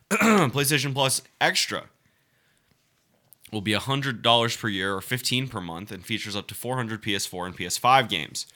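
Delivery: reading the article aloud in a steady report voice; news article reading. Acted. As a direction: read it like a news piece.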